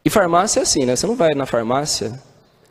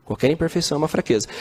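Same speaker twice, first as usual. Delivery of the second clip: "Qualquer imperfeição é uma fraqueza" tossed off fast and softer; quick soft repeat; faster than usual. Shown as a demonstration. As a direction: rush the echo, quieter. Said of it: "repeated for emphasis". (repetição rápida e mais baixa)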